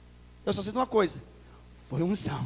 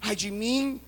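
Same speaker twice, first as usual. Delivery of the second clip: quiet lament; 3 semitones higher than usual. Acted. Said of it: "Ele fala".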